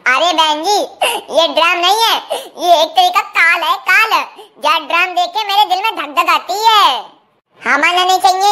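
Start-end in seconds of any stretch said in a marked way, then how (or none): 0.1-4.1 laughing while talking. Acted. Joking about the drum.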